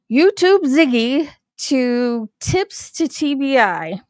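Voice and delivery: slow, careful reading with a lisp; lisping on the s sounds. Real, not acted. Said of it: "sorry about the lisp".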